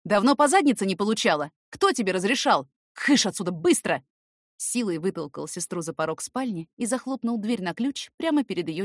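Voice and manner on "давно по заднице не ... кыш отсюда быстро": loud, scolding big brother; angry scolding. Acted. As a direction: chase her out of the room. Scolding sister, pushing out.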